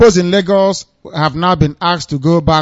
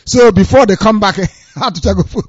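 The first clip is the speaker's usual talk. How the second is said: real laughter breaking into the sentence; laughing; 2 semitones higher than usual. Real, not acted. Host mocking voters sent to the village, laughing. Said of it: "I shouldn't be laughing".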